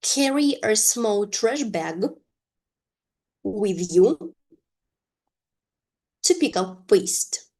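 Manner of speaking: "Carry a small trash bag", "with you", "to pick up waste" in separate chunks; long pauses after "bag" and after "you" for repeating; repeat-after-me model. Shown as a demonstration. Teacher has learners repeat after her, phrase by phrase with long pauses. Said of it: "you are to repeat after me".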